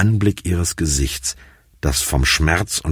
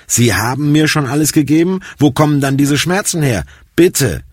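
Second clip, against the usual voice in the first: higher, pained disbelief turning to begging; desperate pleading; 10 semitones higher, 4 dB louder than usual. A narrator's reading. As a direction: push back, then beg. Patient begs for painkillers.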